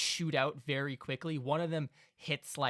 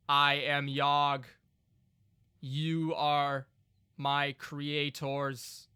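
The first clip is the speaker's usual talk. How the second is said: slow, louder solemn golem; 4 dB louder, much slower than usual. Acted. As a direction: declare it slowly like a construct. Golem speaks.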